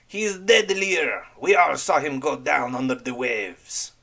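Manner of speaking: frightened sailor insisting; insistent. Acted. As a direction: convince them he's gone. Zarek insists the man drowned.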